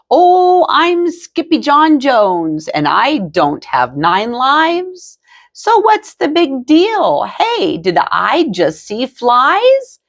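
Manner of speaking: high excited little cat; bouncy, high kid-cat delivery; kitten voice. A narrator's reading. Skippy talks to himself about nine lives, high and bouncy.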